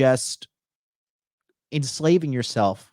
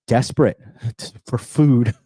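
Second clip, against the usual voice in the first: laughing through it; 4 dB louder than usual. Real, not acted. Laughs at own memory.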